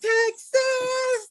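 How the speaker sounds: high, loud burst of yes-exactly; excited confirmation. Real, not acted. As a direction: shout it like they nailed it. Guess confirms her shocking fact.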